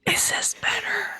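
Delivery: ordinary delivery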